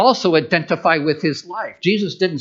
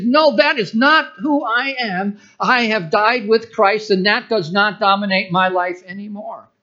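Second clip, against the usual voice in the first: firm declaration; 7 semitones higher, 3 dB louder than usual. Pretend. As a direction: proclaim it, casting the fear out. Rebuking fear, quoted declaration.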